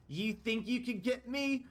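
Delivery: high-pitched taunting hag; game master's high villain voice; taunting villainess. Acted. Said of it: "And she goes".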